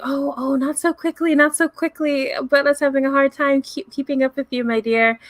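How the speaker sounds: a hint of an abuela chuckling after a running child; laughing old nanny. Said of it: "she's laughing and she's saying".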